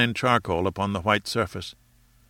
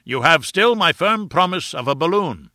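undaunted; 7 semitones higher, 4 dB louder than usual. A narrator's reading. Challenger's undaunted promise.

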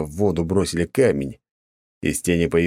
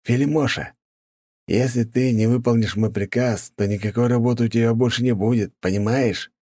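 mock tender; 5 semitones higher than usual. A narrator's reading. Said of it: "ласково сказал Михаил".

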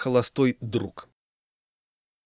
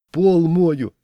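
loud, high, delighted answer; happy voice; 7 semitones higher, 8 dB louder than usual. A narrator's reading. Groom answering his friend's phone call, happy. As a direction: sing out proudly and happily. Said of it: "счастливым голосом ответил".

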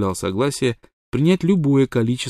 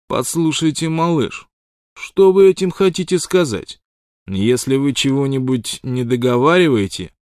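higher, louder rising threat; flaring anger; 5 semitones higher, 5 dB louder than usual. A narrator's reading. Wild Water demands an explanation, barely holding his temper. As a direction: hold back a berserk rage. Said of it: "загорелся гневом".

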